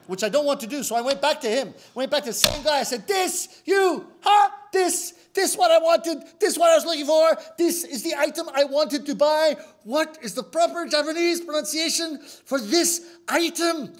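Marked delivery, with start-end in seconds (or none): 3.1-13.9 high, loud demanding; angry shouting. Retold or imitated. Customer shouting at the same clerk, loud high demand. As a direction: shout it at him, high and hard.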